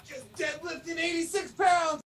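loud, slow gym bro brag. Pretend. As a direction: shout it like a proud lifter. Joking gym bro shout at friend.

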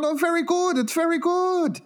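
put-on very high caricatured Asian accent; high-pitched mock Asian shopkeeper; imitated Asian accent. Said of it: "I can do this 'cause my grandmother's Asian".

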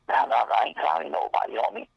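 high-pitched, panicky imitation of backing down; mock scared. A rapper denying he was clowning anybody, mock scared. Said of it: "got all scared".

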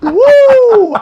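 high laugh into a loud, high whoop. Real, not acted. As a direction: let it all out in a laugh and cheer. Laughing release after weeping story.

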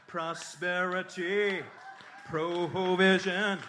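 slow, swelling prosperity-preacher chant; drawn-out mock sermon. Mock preacher repeats list.

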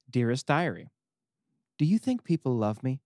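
a hint of a sulky deity; reading God's diary. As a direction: whine it like a needy, self-pitying god. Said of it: "I'm gonna read the diary post".

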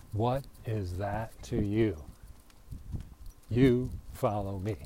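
slowed, weighted rereading of the line; measured, deliberate restatement; slow deliberate reading. Shown as a demonstration. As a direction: let each word land slowly. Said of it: "Witty Whitty".

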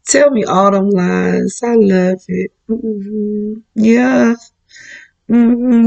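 lightly acted swooning, with hums and sighs; savoring the lies. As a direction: play someone relishing a sweet-talker. Acts lover enjoying sexy liar's lies.

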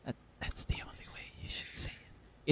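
hushed golf commentator whisper. Pretend. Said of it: "In whispered, hushed tones".

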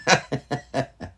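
short chuckling fit; real laugh. Real, not acted. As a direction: laugh at the familiar routine. Laughs at the repeated question.

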